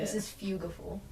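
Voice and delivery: "fugiful", like beautiful starting with F. Shown as a demonstration. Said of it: "It's, like, beautiful with an F".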